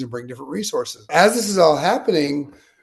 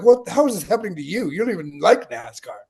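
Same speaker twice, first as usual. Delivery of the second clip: higher-pitched, quick disbelief, imitating excited friends; incredulous excitement; 7 semitones higher, 3 dB louder than usual. NASCAR-loving friends challenging him on his luck, mock incredulous. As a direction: voice baffled friends demanding an explanation. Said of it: "They were all excited".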